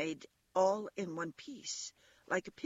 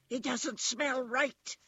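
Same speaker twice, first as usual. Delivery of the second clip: high, slow rabbit exclamation; exclaiming; 8 semitones higher, 3 dB louder, slower than usual. A narrator's reading. Wild rabbit tells the others after sniffing the toy, exclaiming high. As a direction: announce it high and drawn out. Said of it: "he exclaimed".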